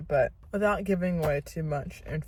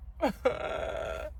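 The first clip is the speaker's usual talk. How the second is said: teary laugh; 9 semitones higher, 6 dB quieter than usual. Real, not acted. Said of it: "show proof that I'm crying".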